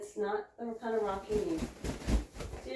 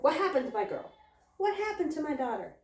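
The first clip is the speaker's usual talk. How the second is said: raised, mock-worried questioning; alarmed mother goat; 7 semitones higher than usual. Mother goat running to screaming Pip, mock alarm. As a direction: lightly act a fretting mother. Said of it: "she immediately turned and, like, ran towards her".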